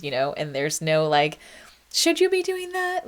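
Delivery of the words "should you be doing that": mock gatekeeper question. Imagined gatekeeper asking parents.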